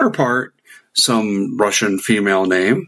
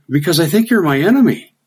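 defiant reply; 9 semitones higher than usual. Retold or imitated. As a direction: say it with blunt defiance. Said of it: "And I said".

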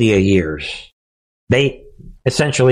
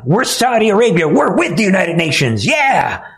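higher, smug mock voice; mock Saudi official; 5 semitones higher than usual. Voicing Saudi officials brushing off the UN pledge, smug and higher. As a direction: play the smug oil minister.

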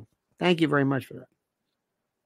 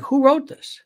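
higher-pitched mock disbelief; baffled reader; 7 semitones higher than usual. People react to a printed note, mock bafflement. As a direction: imitate someone puzzled by childish printing.

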